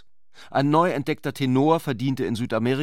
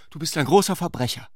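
higher, quick playful cry; calling out; 6 semitones higher, faster than usual. A narrator's reading. Narrator voicing Clarisse crying out at Ulrich, mock accusing. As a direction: fling the accusation out fast and high. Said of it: "rief sie".

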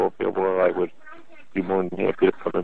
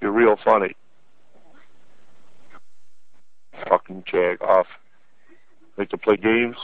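angry sarcastic. Real, not acted. Caller realizes he's pranked.

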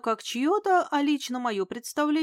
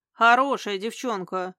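approving; 5 dB louder than usual. Acted. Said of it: "одобрительно покивал он".

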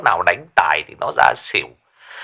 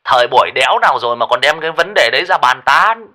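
fast, irritated rant; snapping; 3 semitones higher, faster than usual. Acted. Lão Lý snapping at Minh Hải, fast irritated rant. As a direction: snap at the dumb question. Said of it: "lão gắt".

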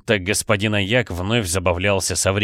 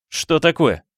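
high, bewildered question; astonished; 8 semitones higher than usual. A narrator's reading. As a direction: ask in startled confusion. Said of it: "изумлённо спросил Флинн". (изумлённо)

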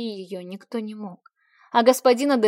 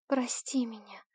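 sobbing apology; 6 dB quieter than usual. A narrator's reading. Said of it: "прошептала Альба, всхлипывая".

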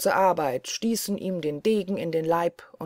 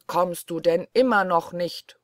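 Blaubart calling; 5 dB louder than usual. Acted. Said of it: "rufte Blaubart zum dritten Mal".

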